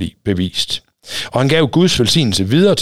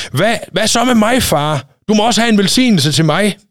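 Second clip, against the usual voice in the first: high, fast outraged cry at his father; angry shout; 11 semitones higher than usual. A narrator's reading. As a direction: Esau bursts out in fury, voice climbing. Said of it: "råbte han højt af raseri".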